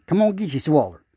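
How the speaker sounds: loud, high coaxing call; sing-song fish call. Pretend. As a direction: holler the bait call across the water. Calling out to the fish.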